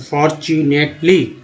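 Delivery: each part of फॉर, चू, नेट, ली said separately. Shown as a demonstration. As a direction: break it as फॉर, चू, नेट, ली with small gaps. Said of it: "ली part है". (टुकड़ों में बोलें: फॉर, चू, नेट, ली)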